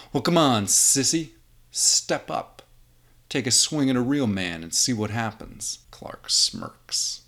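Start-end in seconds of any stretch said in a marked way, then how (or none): 0.1-5.8 loud, higher taunts; tough guy goading. Acted. Tough guy goading Clark to fight, loud and higher. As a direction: goad him to swing first.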